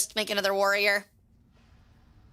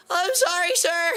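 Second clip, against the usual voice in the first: mock polite cashier; 6 semitones higher than usual. Acts polite teen cashier.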